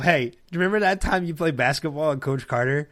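lightly voiced teasing, laughing into the payoff; mock Josh teasing. Actor ribbing costar on stage, half-laughing mock praise. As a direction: needle him with fake praise. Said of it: "he's doing it this way".

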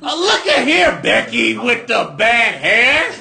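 mock yell at Becky; shouting. Shouting at the Northerner.

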